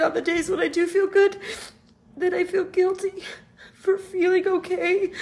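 guilty confession through crying. Real, not acted. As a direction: voice breaking on guilt. Confessing guilt while grieving.

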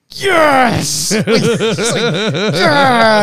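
put-on high, loud child whoop of joy; excited kid cheer. Dad imitating his son's thrilled yes, loud and high. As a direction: cheer like a kid who just got a free day. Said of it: "made this face that was just like".

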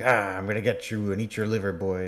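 lightly voiced campy goblin threat; mock goblin snarl. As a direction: imitate an overacting goblin hunting a boy. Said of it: "snarling and being like".

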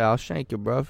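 mock British street threat; lightly put-on British tough; casual fake British menace; British accent attempt. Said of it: "do your best British accent".

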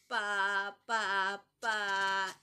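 loud, stuck stammering syllables. Acted. Daughter stammering in shock at number three. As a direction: sputter like a stalling motorbike. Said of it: "atorada como una moto que no arranca".

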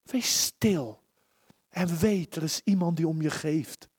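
tender reassurance. Real, not acted. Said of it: "Mag ik het aan jou zeggen vanmorgen, aan jouw hart?".

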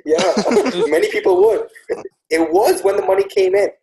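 words pushed out through a high laugh. Real, not acted. Telling friends how he became a City fan, laughing.

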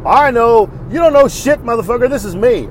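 loud, high mock tirade; acted-out angry phone caller; imitated bitching caller. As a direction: mimic an irate caller going off. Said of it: "try to bitch at me like".

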